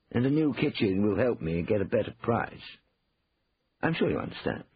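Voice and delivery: reasonable, understated insistence; Cornelius, politely pressing. A narrator's reading. Brother presses about the kitchen refit, mildly insistent.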